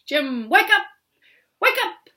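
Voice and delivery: high, loud urgent calls; calling out. Acted. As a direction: shout to wake the sleeping eagle. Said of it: "heard Dingle Mouse calling".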